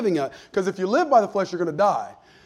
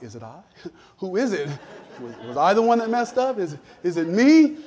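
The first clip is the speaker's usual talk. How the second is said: nervous disciples. Retold or imitated. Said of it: "We looking around like".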